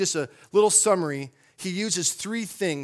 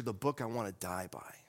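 hushed whisper; 8 semitones lower, 13 dB quieter than usual. Acted. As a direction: whisper the last line of the quote. Quote climax after "here's the catcher.

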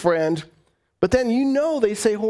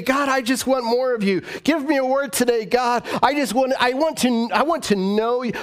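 higher, urgent appeal to God; pleading prayer; 6 semitones higher than usual. Shown as a demonstration. Preacher shows congregation how to seek God, pleading prayer. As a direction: cry out in earnest demonstration.

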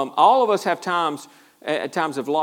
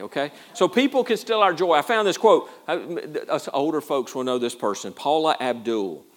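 ordinary talk

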